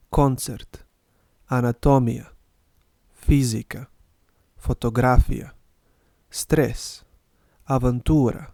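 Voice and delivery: each international word spoken clearly for learners to repeat; teacher's model reading; slow model reading of Serbian words. Shown as a demonstration. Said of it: "I'll read them and you can repeat".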